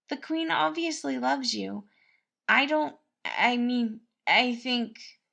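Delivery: a kindly cook fussing over the prince; cheerful cook Patton. A narrator's reading. Narrator voices Patton.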